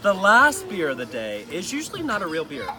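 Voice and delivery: words breaking into giggles; can't get through the line without laughing; reading through giggles; laughing while reading. Real, not acted. Reading a funny letter aloud.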